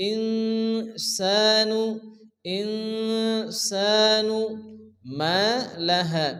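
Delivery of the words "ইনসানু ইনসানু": ইনসানু with the nun held nasal one alif, slowly; nasal ghunna. Shown as a demonstration. Teacher shows the ghunna in ইনসানু, slow. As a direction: hum the nun in ইনসানু through the nose. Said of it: "এক আলিফ গুণনা করে পড়তে হবে".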